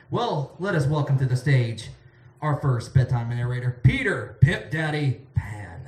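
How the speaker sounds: slow build to a drawn-out "Peter Pimp Daddy Pan"; announcer introduction. Real, not acted. Host welcoming first narrator to the stage, drawn-out announcement of "Peter Pimp Daddy Pan".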